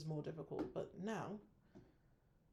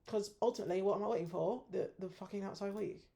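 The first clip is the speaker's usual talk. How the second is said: louder, higher exasperated outburst; frustrated rant; 4 semitones higher, 6 dB louder than usual. Real, not acted. Trader ranting about waiting for outside week, louder. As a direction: vent at the wasted wait.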